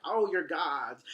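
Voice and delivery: put-on slow, loud, amazed worship of the drunkards; a monster gasping at his new gods; awestruck Caliban. Caliban awestruck by the drunk shipwrecked men, slow and loud. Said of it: "Caliban's like".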